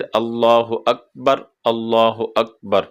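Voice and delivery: slow अल्लाहु अकबर with heavy lam; paused recitation. Shown as a demonstration. Teacher showing the unjoined form. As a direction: stop after अकबर, full lam. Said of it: "मिलाना नहीं है".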